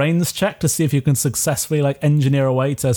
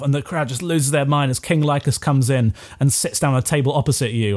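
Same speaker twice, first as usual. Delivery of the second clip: ordinary talk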